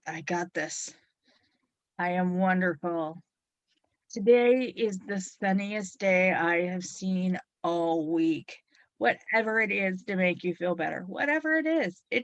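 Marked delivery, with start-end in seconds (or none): 0.1-0.9 quiet, gentle self-talk; soft affirmation. Shown as a demonstration. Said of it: "say something brilliant like". 2.0-8.6 whispered affirmation. Shown as a demonstration. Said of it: "say something brilliant like".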